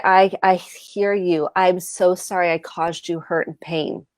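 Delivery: humble apology. Shown as a demonstration. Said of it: "humbling ourselves".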